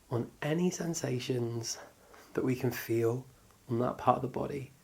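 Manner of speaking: calm, unhurried meditation guidance; guided body scan. Acted. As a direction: guide them gently through noticing the body, with pauses.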